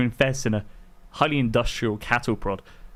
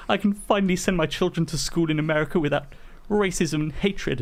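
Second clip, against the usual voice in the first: higher-pitched, slowing imitation of tearful relief; mock teary; 6 semitones higher than usual. Host mocking a news anchor after the election, mock teary. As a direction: play a teary-eyed pundit, pitched up. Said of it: "teary eyes and he went".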